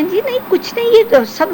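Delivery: high-pitched hurried denial, imitating the cameraman; mock-flustered cameraman saying it was nothing. Cameraman hastily denying, retold quarrel.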